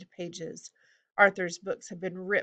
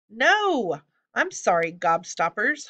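loud, desperate goblin plea; pleading while writhing; 4 semitones higher, 6 dB louder, slower than usual. A narrator's reading. Hobgoblin in the griffin's beak, desperate pleading. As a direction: cry out, then beg. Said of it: "still writhing".

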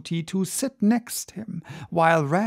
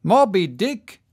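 Moby Dick cried out with a questioning rise; a Spanish don echoing the name in surprise; startled cry; 2 semitones higher, 4 dB louder than usual. Acted. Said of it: "cried Don Sebastian".

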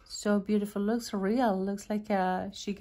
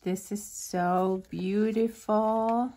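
choked up; slower than usual. Real, not acted. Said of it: "you're gonna make me cry".

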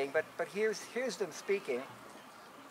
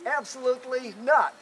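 firm refusal; 6 semitones higher, 7 dB louder than usual. Acted. Grizzly Bear refusing while fleeing.

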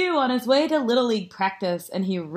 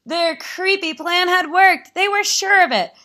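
high, excited storytelling; triumphant narration; 9 semitones higher, 5 dB louder than usual. A narrator's reading. Narrator reveals the carrots' plan worked, triumphant.

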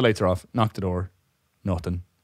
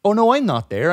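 much higher, airy clueless voice; imitating clueless customer; 11 semitones higher, 5 dB louder than usual. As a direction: play the customer who got it wrong. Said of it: "she was like".

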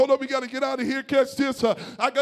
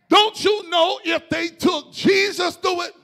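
louder, fuller preaching call; 4 semitones higher, slower than usual. Shown as a demonstration. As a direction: push it out to the crowd. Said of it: "I'm gonna say that again".

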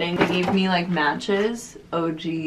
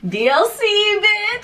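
high, thrilled squeal; excited shriek; slower than usual. Real, not acted. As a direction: shriek it with delight. Excited at seeing the venue.

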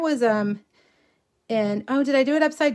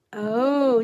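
ordinary talk

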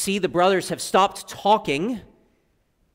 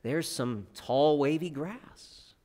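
playful rhyme reading; storytelling voice. Retold or imitated. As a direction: read it like to children. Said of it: "it goes a little something like this".

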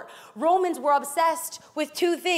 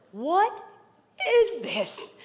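higher, halting astonished question; amazed; 5 semitones higher, much slower than usual. A narrator's reading. Amazed people ask each other, in astonishment. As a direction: ask in amazement, pausing after the first word. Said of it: "were all so amazed".

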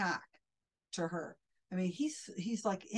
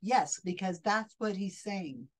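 smooth mock reply; 6 dB louder, slower than usual. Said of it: "barrels right through and says".

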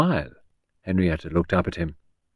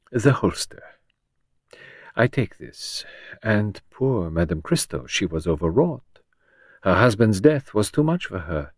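lightly voiced Belgian detective, measured; a hint of a French accent, unhurried; Poirot's French accent; 2 semitones higher than usual. Poirot speaks to Henrietta.

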